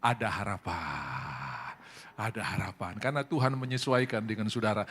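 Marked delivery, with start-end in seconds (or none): 0.0-1.8 hopeful whisper to neighbour. Shown as a demonstration. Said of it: "Jadi bilang kiri kanan".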